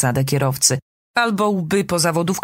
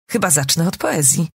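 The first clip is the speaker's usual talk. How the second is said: ordinary delivery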